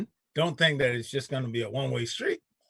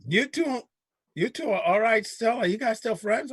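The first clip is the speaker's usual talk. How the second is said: imitating a worried woman, higher; a mock anxious higher voice; worried friend; 7 semitones higher than usual. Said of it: "She goes".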